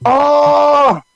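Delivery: mock confrontation. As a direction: play the annoyed star catching a stare. A singer confronting him.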